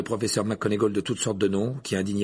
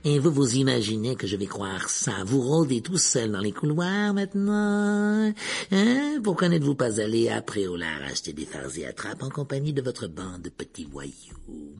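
suspicious; 2 semitones higher than usual. A narrator's reading. Caretaker interrogates Harry in the corridor, suspiciously. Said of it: "Rusard d'un air soupçonneux".

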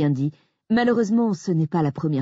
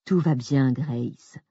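soothing; 3 semitones lower, much slower than usual. Acted. Jack calming his panicked wife. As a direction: settle her down gently. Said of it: "d'une voix apaisante".

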